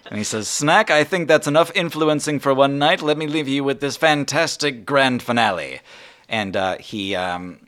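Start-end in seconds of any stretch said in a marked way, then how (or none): 0.5-5.8 genie voice. Acted. Genie bids farewell.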